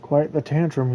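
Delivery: mocking quote. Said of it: "he says".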